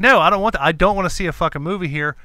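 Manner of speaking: father refusing passes at the counter, angry; angry refusal. Retold or imitated. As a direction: refuse him flatly and loud. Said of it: "but I was like".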